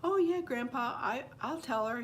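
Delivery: put-on high, sing-song child's voice; imitated child, pitched well up; little girl agreeing. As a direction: promise like an obliging little girl. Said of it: "And she goes".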